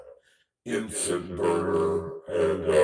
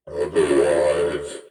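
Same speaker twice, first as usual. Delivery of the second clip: slow announcer; much slower than usual. Acted. Host sign-off.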